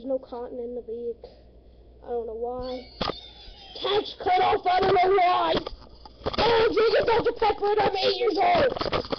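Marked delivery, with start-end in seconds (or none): 3.8-9.1 yelling. Real, not acted. Kid showing off plush toys on video, yelling. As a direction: blurt it out at a yell. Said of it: "Sorry, stop yelling".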